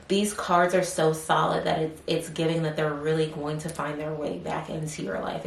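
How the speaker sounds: talking with something in mouth; words round something held in the mouth; mouth full. Real, not acted. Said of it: "I have clothes in my mouth".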